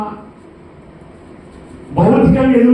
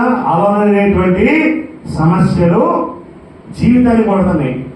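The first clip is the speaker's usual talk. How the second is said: slow, deliberate, word by word: అలలనేటువంటి సమస్యలు జీవితాన్ని కొడతాయి; slow emphatic restatement; 3 semitones lower than usual. Shown as a demonstration. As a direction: spell it out slowly so the congregation gets it. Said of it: "అర్థమైందా?". (నెమ్మదిగా, ఒక్కో పదం నొక్కి చెప్పడం)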